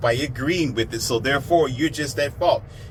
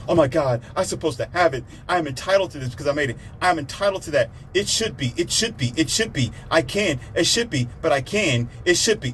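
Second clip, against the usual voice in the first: entitled whining; 3 semitones higher than usual. Retold or imitated.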